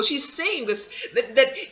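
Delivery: laughing through the words, slow; amused laugh mid-sentence. Real, not acted. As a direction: chuckle while getting it out. Laughing while recounting.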